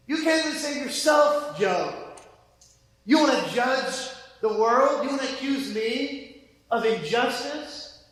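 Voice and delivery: a touch of amused divine scorn; sarcastic God. Pretend. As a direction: needle him with a teasing jab. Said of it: "a bit of humor, a bit of sarcasm".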